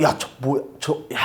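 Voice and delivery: low, hushed retold gossip; imitated scandalized murmur. Townspeople seeing a man carry a baby, hushed disbelief.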